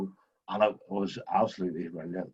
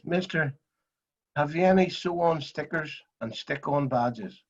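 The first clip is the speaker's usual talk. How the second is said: put-on higher, slow, earnest kid's question; lightly voiced ten-year-old asking for stickers; imitating a young boy; 5 semitones higher than usual. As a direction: ask it solemnly like a wee boy who means it. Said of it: "he says".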